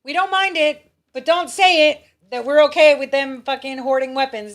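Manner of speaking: high, loud, exaggerated parody of a quote; mocking restatement. Parodying Churchill condoning secret gun running, mocking.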